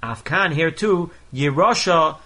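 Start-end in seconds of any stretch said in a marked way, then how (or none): 1.3-2.2 Yerusha with a strong middle syllable "ru"; stress on the Reish. Shown as a demonstration. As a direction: say Yerusha as ye-RU-sha. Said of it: "the accent is on the beginning of the word".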